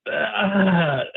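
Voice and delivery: groan, torn over a tough call. Real, not acted. Weighing a manager's tough bullpen call, torn groan.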